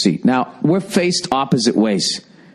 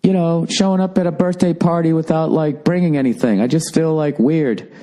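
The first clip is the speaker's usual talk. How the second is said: wife explaining she feels weird, lightly mimicked; imitating wife. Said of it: "She goes".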